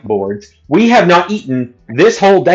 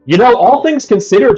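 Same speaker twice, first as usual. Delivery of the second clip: mocking the uncle; 9 semitones higher than usual.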